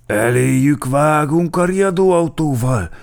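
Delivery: loud, high rallying cry; excited officer's yell; whooped. A narrator's reading. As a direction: shout the plan out eagerly.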